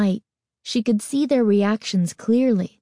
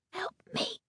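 ghostly plea; 11 semitones higher, 11 dB quieter than usual. A narrator's reading. Head silently mouths words.

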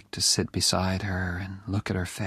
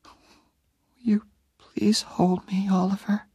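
high, slow, weak whisper; slow pleading whisper; 10 semitones higher, slower than usual. Acted. Dying Jenny begs Oliver to hold her, slow whisper. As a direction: ask for comfort with your last strength.

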